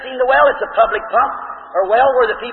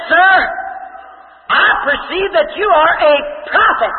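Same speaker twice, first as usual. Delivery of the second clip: she realizes who he is, pitched up with a laugh; Samaritan woman; 4 semitones higher, slower than usual. Retold or imitated. The woman at the well recognizes Jesus, high and laughing.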